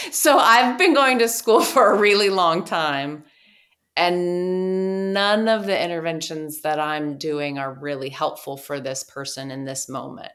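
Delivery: laughing exasperation at own schooling; laughing frustration. Retold or imitated. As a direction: vent through a laugh. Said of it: "And I said".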